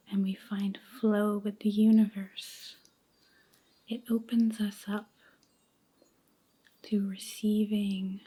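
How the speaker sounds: slow, hushed meditation voice with long pauses; guided meditation. Acted. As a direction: guide them gently into letting go, near a whisper, unhurried.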